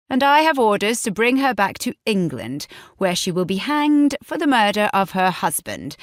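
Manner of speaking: guard on horseback demanding the fugitive; commanding English guard. Acted. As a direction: order him to hand her over. Narrator voices English guard.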